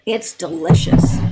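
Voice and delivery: slow words after a sip of coffee; savoring a sip mid-sentence; while sipping a drink. Real, not acted. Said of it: "Excuse me while I drink".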